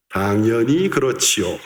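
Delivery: 당연히 그렇지요 run together very fast; fast, slurred 당연히 그렇지요; rushed Korean phrase. Shown as a demonstration. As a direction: rattle off 당연히 그렇지요 in one quick breath. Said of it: "¿cómo se pronuncia?".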